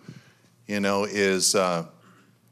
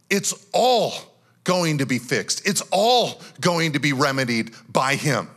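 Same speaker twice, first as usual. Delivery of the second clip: triumphant confidence; 4 semitones higher than usual. Retold or imitated. Pastor voicing the psalmist's hope to the church, higher and triumphant. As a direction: proclaim it like the psalmist's sudden certainty. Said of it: "He's like".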